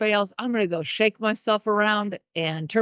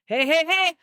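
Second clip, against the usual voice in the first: bright greeting; 11 semitones higher than usual. Retold or imitated. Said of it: "I'm like".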